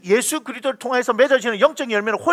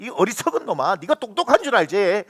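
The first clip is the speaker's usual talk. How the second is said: mocking rebuke. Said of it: "성경이 그렇게 얘기하는 거예요".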